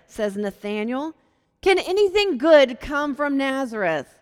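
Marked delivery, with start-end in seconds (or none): 1.6-4.2 scoffing. Retold or imitated. Nathanael scoffing at Nazareth.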